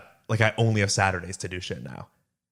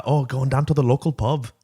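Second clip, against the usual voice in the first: put-on a weak try at a British accent, slightly higher; attempted British accent; 4 semitones higher, 3 dB louder than usual. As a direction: fake a British accent that slips toward Irish. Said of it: "I can't put on a British accent".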